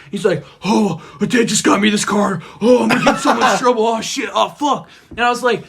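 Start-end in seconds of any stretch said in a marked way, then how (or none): 0.6-4.9 retold panic. Brother panics over damaged car.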